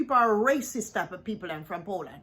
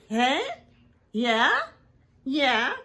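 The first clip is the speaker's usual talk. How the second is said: mocking a put-on Polish accent, louder; 5 dB louder, much slower than usual. YouTuber mocks the traveller's sudden Polish accent, in a loud mock Polish accent. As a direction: sneer it out as a fake Polish accent. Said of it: "you got Polish accent".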